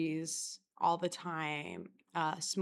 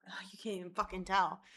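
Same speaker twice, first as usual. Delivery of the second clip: whispered annoyed aside, no voice; frustrated whisper; 3 dB quieter than usual. Real, not acted. Whispering to viewers that the colour won't show. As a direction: hiss it under your breath in frustration.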